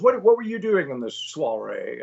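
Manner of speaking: a hint of celebrity impression; Sean Connery. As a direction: question it as a Scottish film legend. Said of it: "he goes".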